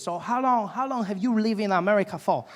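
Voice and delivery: car dealer in a put-on Asian accent. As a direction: imitate an Asian salesman's accented English. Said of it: "there's this Asian gentleman helping me".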